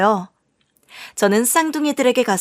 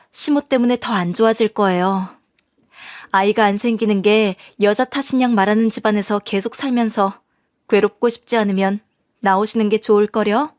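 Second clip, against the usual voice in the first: ordinary delivery, nothing marked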